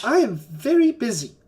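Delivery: yelling. Acted. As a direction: yell it down to them. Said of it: "you hear him yelling".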